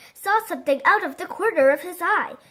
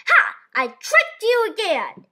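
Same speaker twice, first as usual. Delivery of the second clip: gleeful laugh; 7 semitones higher, 4 dB louder than usual. A narrator's reading. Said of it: "he was laughing so hard".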